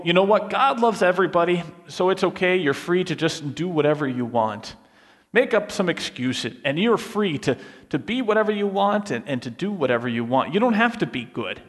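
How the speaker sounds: mock permissive preacher, breezy; breezy excuse-maker. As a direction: shrug it all off lightly. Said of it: "They'll say something like this".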